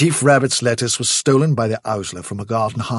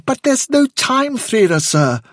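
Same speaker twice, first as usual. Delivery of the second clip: very high, urgent little voice; blurted out; 5 dB louder, slower than usual. A narrator's reading. Fiver cutting off the chief, urgent blurt. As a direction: burst in with alarm. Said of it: "blurted out Fiver".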